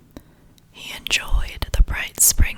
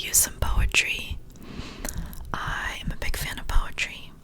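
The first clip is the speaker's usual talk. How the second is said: unvoiced-breath ASMR whisper, unhurried pauses; nice relaxing whisper. Real, not acted. Host welcoming listeners to a poetry reading, whispering. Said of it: "some nice whispers".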